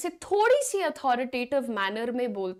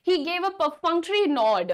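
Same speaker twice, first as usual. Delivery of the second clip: slow, slightly louder example line; slow model sentence; 3 semitones higher, 3 dB louder, much slower than usual. Shown as a demonstration. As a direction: read the example slowly. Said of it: "इसका एक sentence बताते हैं". (धीमा उदाहरण वाक्य)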